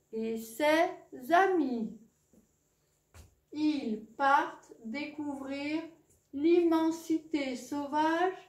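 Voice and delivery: slow, storybook title reading; story reading. Acted. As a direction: announce the adventure slowly to the children. Reads story title to class.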